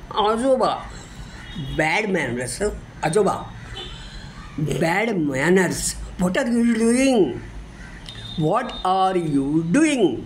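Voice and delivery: a child's slow pretend scolding; mock scolding. Grandchild scolds grandpa for burping, mock cross. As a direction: drag out what are you doing, mock cross. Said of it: "मी म्हणायची रागून".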